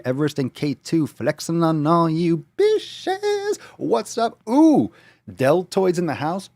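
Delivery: pumped, rising show host; hype host voice. Acted. Welcoming gym fans, hyped podcast host.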